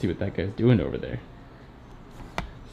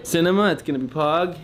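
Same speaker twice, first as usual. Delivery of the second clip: excited; 6 semitones higher than usual. Real, not acted. Hypes the stream.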